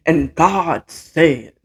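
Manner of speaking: slow drawn-out preacher voice; slow, solemn mock pastor; pastor imitation. Mocking pulpit pastors, a slow preacher drawl. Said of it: "talking like this".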